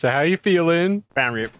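talking around a lollipop; mouth full. Real, not acted. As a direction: speak with candy in your mouth. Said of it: "Didn't even say it properly".

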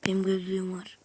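soft unvoiced whisper. Real, not acted. Gamer telling viewers his find, whispering. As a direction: breathe it out quietly. Whispered aside while playing.

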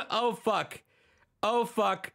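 high-pitched mock dismay; comic, high oh-no; mock-dismayed crew. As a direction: voice a crew realizing they messed up. Voicing production's alarm at crying.

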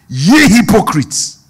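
slow, weighty rebuke to the Pharisees; Jesus rebukes the Pharisees in slow, solemn tones; Jesus rebuking. Acted. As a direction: draw out the words of scripture. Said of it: "Jesus was talking to the Pharisees".

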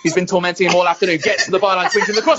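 building play-by-play commentator; football commentary. Pretend. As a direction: call it like a live match.

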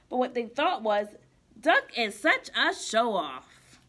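put-on lively storybook read-aloud for kids; reading to children. Teacher reading a picture book to kids, bright and lively. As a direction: read it like circle time with little ones.

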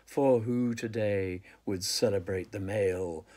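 measured, deliberate poetry reading; poem recitation. Acted. Poet reading a poem on a man's body to listeners, measured recitation. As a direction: recite it with weight on each phrase, pausing between images. Reads own poem aloud.

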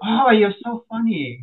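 amused customer, lightly voiced; mock giggly lady; laughing lady.

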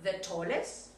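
Is Paul the tallest, spoken slowly with a rising end; teacher asking the student to repeat; slow model question. Shown as a demonstration.

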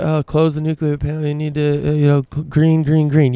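sarcastic lightly voiced lecture to Russia; a hint of a preachy young activist chanting green; Greta Thunberg impression. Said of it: "Greta Thunberg telling all of Russia".

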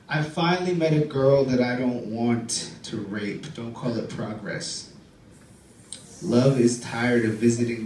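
deliberate, declaiming poem recital; poem reading. Acted. Comic reading his poem about Katsumi, declaiming. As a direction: read the poem with deadpan weight.

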